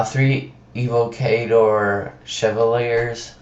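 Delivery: talking with a sore tongue; thick-tongued from a sore mouth. Real, not acted. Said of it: "sorry if I pronounced that wrong".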